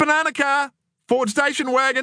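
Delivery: very high, ringing shout. The speaker calls out during the Banana Car game with Scott and Adam; shouted. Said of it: "shouted".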